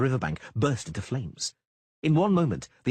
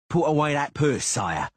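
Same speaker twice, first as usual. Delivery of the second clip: louder, menacing warning to a traveller; 7 semitones higher, 6 dB louder than usual. A narrator's reading. Guard refusing a bribe, loud and menacing. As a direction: lean in hard on put. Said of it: "the future Centurion said menacingly".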